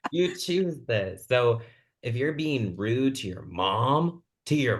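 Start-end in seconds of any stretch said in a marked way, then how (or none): 0.1-1.3 slow and laughing through You choose this; amused slow scolding; laughing emphatic. Real, not acted. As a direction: laugh while stressing it.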